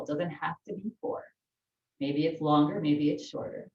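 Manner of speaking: calm yoga teacher voice; unhurried breathing instructions; guided breathing. Acted. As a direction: talk them gently through the breath.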